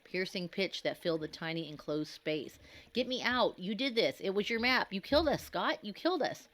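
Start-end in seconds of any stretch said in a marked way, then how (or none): 2.9-6.5 much higher, loud screamed blame; shrieking blame in hysteria; hysterical accusing scream. A narrator's reading. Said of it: "his voice reaching a hysterical, piercing pitch".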